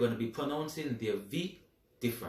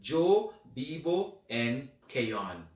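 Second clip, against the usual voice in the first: slow model answer; much slower than usual. Shown as a demonstration. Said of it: "it is gonna be".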